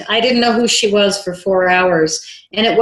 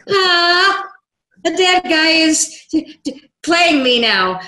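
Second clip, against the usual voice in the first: stunned disbelief; 7 semitones higher, slower than usual. Retold or imitated. Stunned by a ghost's message.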